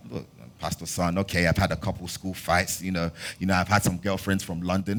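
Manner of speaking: soft, sheepish confession; sheepish and quiet. Retold or imitated.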